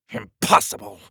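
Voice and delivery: high, sudden burst of disbelief; outraged king. Acted. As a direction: snap out IMPOSSIBLE in one go. King rejects wizard's idea in fury.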